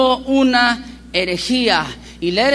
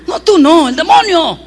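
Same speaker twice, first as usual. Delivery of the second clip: a touch louder, brusque correction; mock impatient correction; 3 semitones higher, 6 dB louder than usual. Leader correcting the girl, a touch louder and brusque. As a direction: snap back, correcting her.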